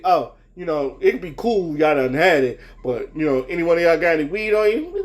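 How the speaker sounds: a lightly voiced, low cop fishing for an excuse; imitating the cop. Cop questioning them, voiced.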